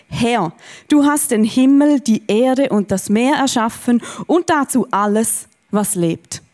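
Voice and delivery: measured Standard German Bible reading; scripture reading. Acted. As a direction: read the prayer out slowly and deliberately. Reads the Bible prayer aloud.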